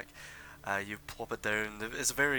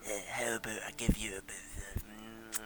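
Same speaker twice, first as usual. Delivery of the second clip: put-on older gnome haggler.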